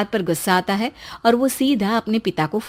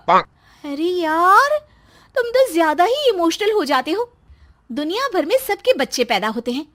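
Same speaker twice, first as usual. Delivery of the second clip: higher, dragged-out teasing; mocking wife; 5 semitones higher than usual. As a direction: roll your eyes at him. Wife mocks emotional husband. (चिढ़ाती पत्नी)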